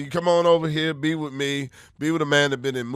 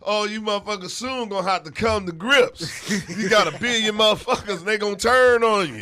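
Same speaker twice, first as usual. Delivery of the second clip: rapper taunt; 4 semitones higher than usual. Acted.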